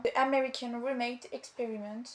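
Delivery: English title with a real French accent; French speaker attempting English. Real, not acted. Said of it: "Désolée pour mon accent anglais".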